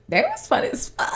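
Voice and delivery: squealed very high with glee; gushing to listeners about the party, squealing; excited squeal. Real, not acted. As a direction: let it fly up into a squeal of delight.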